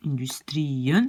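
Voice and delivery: "Industrien" slow, long stressed TRI before -en; accent sur le I. Shown as a demonstration. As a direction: hold the I of "Industrien", then add -en. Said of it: "l'accent est sur le I". (« Industrien » lent, I allongé puis -en)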